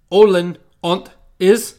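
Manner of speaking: loud, slow animal bark; bumbler voice. Acted. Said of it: "forbidding glance".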